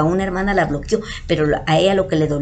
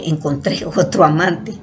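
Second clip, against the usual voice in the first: reading "encontré otro amante" aloud with a laugh in the middle; laughing misread. Retold or imitated. Reading the boyfriend's translated message, with a laugh. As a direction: chuckle through "encontré" while reading the message. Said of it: "aquí se lee bien".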